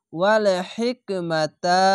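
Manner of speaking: drawn-out recited phrase; slow recitation. Shown as a demonstration. Teacher to students, slow recited phrase. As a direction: recite it slowly and clearly. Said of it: "Quran recitation demo".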